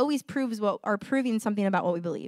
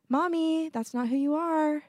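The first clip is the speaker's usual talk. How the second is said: put-on child correcting mom; 6 semitones higher than usual. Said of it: "They tell me".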